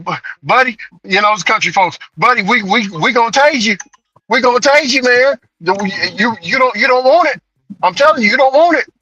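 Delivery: country cop's rising warning; lightly voiced cop, building to a high warning; officer warning. Officer warning suspect before tasing.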